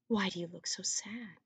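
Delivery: whispered, tender question; gentle whisper. Acted. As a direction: hush it to comfort his mother. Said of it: "he said gently".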